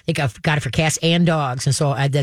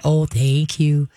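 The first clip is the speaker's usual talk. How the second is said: calm thank you; much slower than usual. Shown as a demonstration. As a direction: thank the dog gently. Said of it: "Just a verbal thank you".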